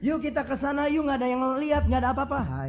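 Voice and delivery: high coaxing lure; tempting devil. Acted. Preacher voicing the devil luring the empty-hearted, high and coaxing. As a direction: coax like a sly tempter.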